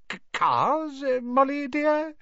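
high, stammering guilty husband. Acted. Arthur caught out by his wife, high guilty stammer. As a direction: falter as if caught out.

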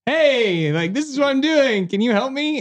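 a hint of a sheepish beggar; lightly voiced sheepish request; pleading ask. Asking the priest for help.

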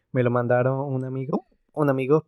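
hiccuping between words; with hiccups. Real, not acted. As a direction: speak through hiccups. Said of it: "perdón, y tengo hipo".

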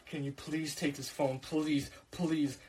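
soft, slow begging; hushed desperate plea; pleading. Retold or imitated. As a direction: beg her quietly to take it. Begging friend to take phone.

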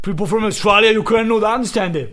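loud, exaggerated Australian accent; mock Australian twang. Shown as a demonstration. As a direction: make the Aussie English hard to follow. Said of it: "me gusta más el acento australiano".

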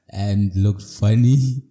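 stretched-out words after a real chuckle; real amused laughing. Real, not acted. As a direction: giggle slipping into the words. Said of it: "I don't know why I'm laughing now".

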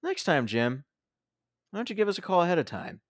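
mock cheery villain. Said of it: "he goes like".

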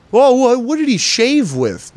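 high-pitched mock amazement; mock eager fan. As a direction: gush like an overcurious fan. Acts out an overeager fan's question.

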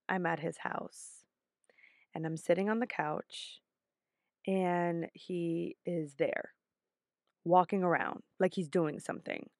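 low hushed storytelling; soft secretive dream recounting. Retold or imitated. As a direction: draw them in with a near whisper. Dream told hushed, unvoiced.

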